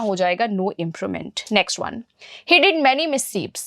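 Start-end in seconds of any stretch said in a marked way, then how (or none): 2.5-3.6 slow sentence read. Shown as a demonstration. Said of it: "इस part को improve करने के लिए".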